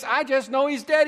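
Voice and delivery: high and loud panicked cry of dead; frantic wife. Retold or imitated. Preacher voicing the anxious wife, high and loud. Frantic woman voiced in sermon.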